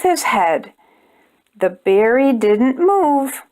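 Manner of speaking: gentle storybook narration for little ones; measured picture-book read-aloud; reading to children. A narrator's reading. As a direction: read it like bedtime story time.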